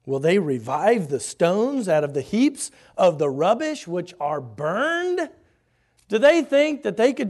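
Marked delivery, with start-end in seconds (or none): 0.1-5.3 laughing scornful taunt, louder; mocking laugh. Sanballat ridiculing the wall builders, laughing mockery. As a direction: jeer at the builders with a scoffing laugh. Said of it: "He says".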